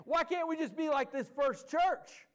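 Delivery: half-hammed complaint, climbing high at the start; mock exasperated outcry. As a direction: play the frustrated churchgoer demanding answers. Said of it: "I'll hear people say".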